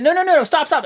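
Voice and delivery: high, loud hammed-up pleading; mock yell. Fan retelling Strowman's victim begging him to stop, mock yell. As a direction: yell stop like you're about to get crushed. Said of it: "And he said".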